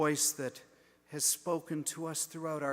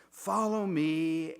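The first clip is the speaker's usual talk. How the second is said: louder, slow drawn-out invitation; slow call; 5 dB louder, slower than usual. Retold or imitated. Jesus calls his flock to follow, slow earnest call. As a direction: lean in and call it slowly. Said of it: "speaks like a sighing breath".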